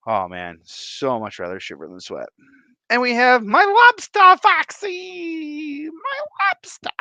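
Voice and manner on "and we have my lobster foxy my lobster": high, loud, delighted call; excited greeting. Real, not acted. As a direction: cheer the name of your favourite.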